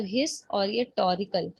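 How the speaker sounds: "हिस" and "टोरिकल" as separate slow chunks; measured teacher's breakdown of "हिस" and "टोरिकल"; syllables shown separately. Shown as a demonstration. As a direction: point out each piece, "हिस", then "टोरिकल". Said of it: "syllable क्या होता है".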